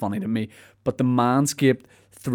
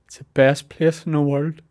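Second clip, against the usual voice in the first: higher, mock choked-up pride; mock tearful; 4 semitones higher than usual. Answering a stranger about his hometown, mock tearful. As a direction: act lightly moved to tears. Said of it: "with a tear in my eye".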